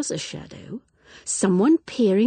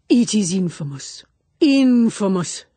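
rising fury repeated; Spanish lady furious at the police; indignant senora; 3 semitones higher, 6 dB louder than usual. A narrator's reading. Senora complains about the police.

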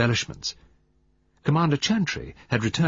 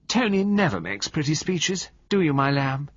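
sighing; 6 semitones higher than usual. Acted. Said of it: "His wife sighed".

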